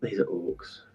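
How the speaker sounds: orky voice. Acted. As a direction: rumble it like an orc. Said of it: "You got an orky voice there".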